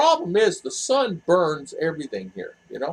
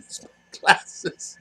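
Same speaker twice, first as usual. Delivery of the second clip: laughing, breathy; 4 dB quieter, slower than usual. Real, not acted. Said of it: "I look blurry here".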